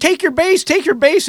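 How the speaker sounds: high, repeated yelling from many voices. Retelling being hit by a pitch, imitating people yelling. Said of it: "everybody's yelling".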